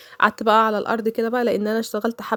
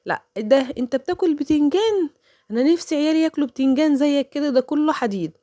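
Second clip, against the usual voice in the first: higher gushing imitation of the neighbour's words; mock envious neighbour; 5 semitones higher than usual. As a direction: mimic her fake admiration. تعيد كلام الجارة الحسودة. (تقليد ساخر لكلام الجارة)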